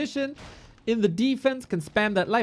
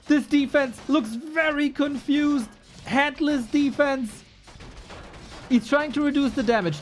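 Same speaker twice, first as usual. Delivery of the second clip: higher, excited play-by-play; 7 semitones higher, slower than usual. Real, not acted. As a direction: hype up the fight. Hype moment in live cast.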